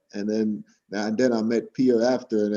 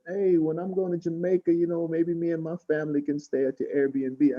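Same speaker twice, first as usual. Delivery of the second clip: higher-pitched mimicked woman's voice; imitated store lady; 6 semitones higher, 3 dB quieter than usual. Store lady hoping to book a stay, high imitated voice. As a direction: lift the pitch to play her. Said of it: "she said".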